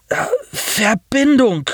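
high, slow groaning machine voice; robotic groan. A narrator's reading. Wounded pilot repeats his plea to Nasir, slow high groan. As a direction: drag the word out flat and high. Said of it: "stöhnte der Europäer".

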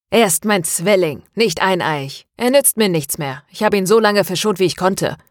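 lightly voiced venomous villain. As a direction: spit it out with poison. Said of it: "zischte René giftig".

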